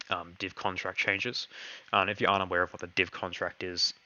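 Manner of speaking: hoarse, voice giving out; losing voice. Real, not acted. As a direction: push through a fading voice. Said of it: "I'm losing my voice here".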